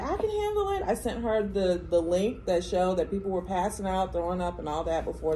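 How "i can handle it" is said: high, cocky daughter voice, lightly mocked; imitating daughter. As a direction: mimic the overconfident daughter. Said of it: "she was like".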